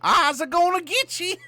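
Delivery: high-pitched, taunting ghost voice; high, excited cartoon chaser; chasing ghost. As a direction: taunt them as the ghost on their heels. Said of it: "I'm the ghost chasing after the first person".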